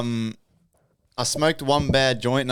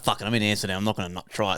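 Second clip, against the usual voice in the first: talking himself into it under his breath; quiet inner voice; 7 semitones lower, 7 dB quieter, faster than usual. Retold or imitated. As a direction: lower and softer, to himself. Own thought voiced low, quiet.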